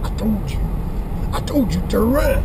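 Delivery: hammed-up tough biker; gravelly biker drawl. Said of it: "they should use a biker's voice".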